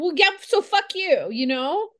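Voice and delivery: high, sudden angry snap; lashing out in anger; angry outburst. Acted. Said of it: "that's your emotions talking".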